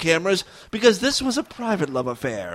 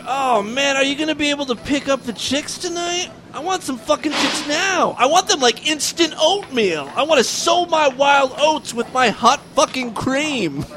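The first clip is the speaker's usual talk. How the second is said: put-on high, slurry drunk frat guy; slurring drunk; 7 semitones higher than usual. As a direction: slur it like a drunk bro. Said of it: "Brad slurred".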